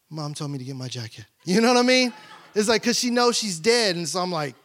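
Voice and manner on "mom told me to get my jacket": put-on small girl excuse. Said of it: "she goes".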